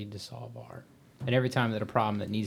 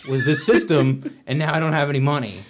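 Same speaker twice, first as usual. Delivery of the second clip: laughing through the words; a gentle laugh breaking in; kind gentle laugh; 3 semitones higher, 8 dB louder than usual. Real, not acted. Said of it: "I'm not laughing at you".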